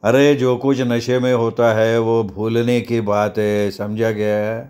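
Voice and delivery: slow, drawn-out growled reproof; gang boss's roar. Acted. Gang boss rebukes a man over a drunken fight, growling. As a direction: lay down the law slowly and heavily. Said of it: "लुका गरजला".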